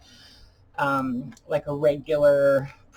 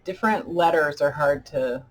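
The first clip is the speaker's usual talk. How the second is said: thick, sticky speech with dentures; speaking through a mouthful of peanut butter; mouth full of peanut butter. Real, not acted. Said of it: "a whole spoon of peanut butter on the roof of your mouth".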